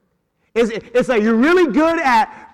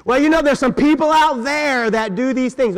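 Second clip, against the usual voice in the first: vague evasive tone; 4 semitones higher, 3 dB louder than usual. Retold or imitated. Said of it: "You ever heard somebody talk like that?".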